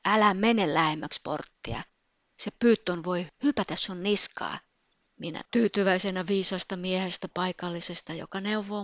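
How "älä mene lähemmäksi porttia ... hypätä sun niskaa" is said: louder retold yell of a stranger's warning; man's warning shout. Man on her left warns her about the python, loud retold shout. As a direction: shout it out urgently, as the man did. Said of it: "Taas mun vasemmalta puolelta mies huuti".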